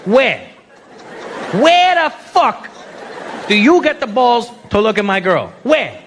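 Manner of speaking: hammed-up interrogation in bursts; mock angry demand. Angry Italian asking who looks at his girl, mock irate. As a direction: demand an answer, stopping for effect. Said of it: "is when they get angry".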